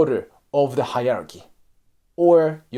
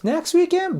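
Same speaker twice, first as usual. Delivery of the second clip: much higher reluctant next weekend; polite reluctance. Shown as a demonstration. Colleague politely dodging an invite, reluctant. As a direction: sound nice while not wanting to go. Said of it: "He's still trying to be nice".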